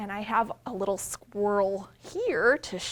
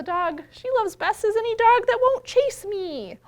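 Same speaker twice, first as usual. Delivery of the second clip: cat narrator; 10 semitones higher, 9 dB louder than usual. Acted.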